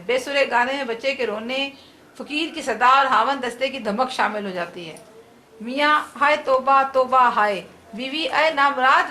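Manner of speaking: lively comic play read aloud with light character voices; comic drama read for students; dramatic reading. Acted. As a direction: read the play to the class, bringing husband and wife to life. Teacher reads a comic drama aloud.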